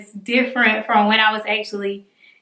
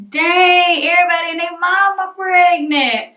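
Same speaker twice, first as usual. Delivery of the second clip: high-pitched, louder mock disbelief; mock astonishment; 7 semitones higher, 4 dB louder than usual. Vlogger voicing what viewers are thinking, mock astonished. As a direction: exclaim it like a nosy onlooker, playfully.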